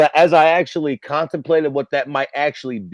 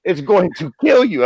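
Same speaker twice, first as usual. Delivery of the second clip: higher-pitched mock weatherman; urgent warning; 5 semitones higher than usual. Weatherman on TV warning locals of the storm, imitated urgency. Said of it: "homeboy on the fucking T V being like".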